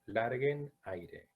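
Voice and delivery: drawn out, each word pressed; slow insistent reminder; slow emphasis. Shown as a demonstration. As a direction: stretch out "larguen aire" to insist. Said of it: "lo voy a marcar siempre".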